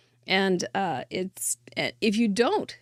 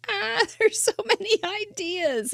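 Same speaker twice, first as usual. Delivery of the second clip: excited gush; 11 semitones higher than usual. Retold or imitated. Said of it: "just going".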